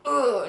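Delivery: acted-out "ugh" of anger; mock-furious ugh; frustrated groan. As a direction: groan it out in exasperation. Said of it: "I'm just so mad".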